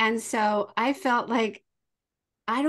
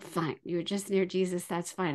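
resigned mom; 5 semitones lower, 6 dB quieter than usual. Retold or imitated.

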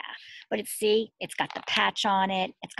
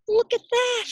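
high, loud delighted cry; excited exclaim; 7 dB louder than usual. Acted. Teacher revealing the button to the class.

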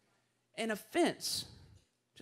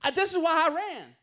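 higher, louder, fast exasperated rant at God; exasperated complaint; 5 semitones higher, 3 dB louder than usual. Retold or imitated. Jonah complains to God about sparing Nineveh, higher and louder exasperated rant. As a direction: vent at God like you were right all along. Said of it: "And Jonah's like".

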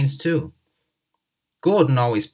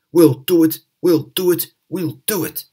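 louder, straining rhythmic puffs; puffing with effort; 5 semitones higher, 6 dB louder than usual. Acted. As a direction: chug the words with effort. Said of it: "puffed Henry".

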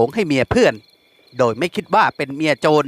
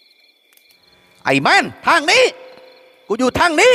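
bawling call; 12 semitones higher, much slower than usual. A narrator's reading. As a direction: holler so he spots you. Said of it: "ก็แหกปากเรียกอีก".

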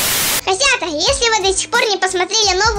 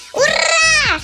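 high excited cheer; 7 semitones higher than usual. Acted. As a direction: shout a happy hooray. Cheering Cindy's subscribers.

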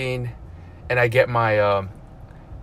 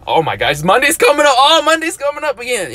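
higher and louder, hammed-up panic; mock Monday dread; 12 semitones higher, 5 dB louder, faster than usual. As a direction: play the dread of Monday coming, half-joking. Acting out Monday anxiety.

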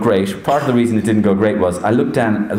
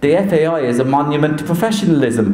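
higher, mock-serious declaration; performed deadpan proclamation; Roy Keane impersonation; 5 semitones higher than usual. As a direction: deliver the joke in a put-on voice. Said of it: "say something laughable".

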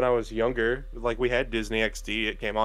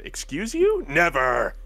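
high, shocked indignation; mock indignant squeak; 3 semitones higher, slower than usual. Danny accused by Jake, a mock high indignant squeak. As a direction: squeak out the outrage, hammed-up. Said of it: "voicing Danny".

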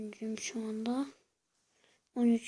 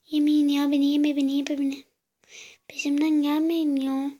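being chased; 3 dB louder than usual. Real, not acted.

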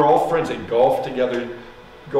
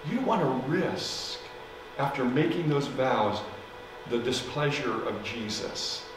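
softer, gentler repeat of the warning; softer plea; 6 dB quieter than usual. Retold or imitated. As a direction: ease off and plead softly. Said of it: "I pleaded with her".

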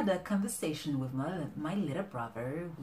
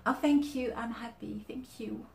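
fake happiness; 8 semitones higher than usual. Receiver thanks the giver for a disappointing present, fake happiness. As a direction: feign being pleased, high and fading. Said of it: "not this fake happiness like".

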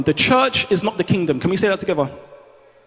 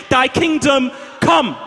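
drawn-out proclamation; 3 semitones higher, slower than usual. Acted. Climax of prayer proclamation.

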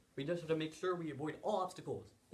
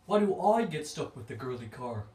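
whiny complaint; 8 dB louder than usual. Acted. Complaining about unfair car.

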